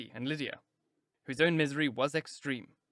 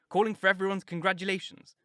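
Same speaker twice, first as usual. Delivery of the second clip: excited; 6 semitones higher, 5 dB louder than usual. A narrator's reading. Narrating Lydia's rapture.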